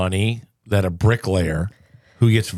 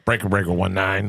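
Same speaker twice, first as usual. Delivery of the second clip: over a radio. Pretend. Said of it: "I wish they had walkie-talkies".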